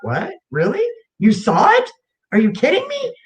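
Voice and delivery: retold astonishment, pitch climbing to a high finish; stunned questions, ending way up high; incredulous disbelief. Patient retelling her reply to the doctor who believed her, incredulous.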